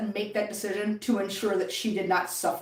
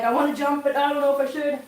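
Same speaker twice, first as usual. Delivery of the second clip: voicing cat's thoughts; 2 semitones higher, faster than usual. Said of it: "He's like".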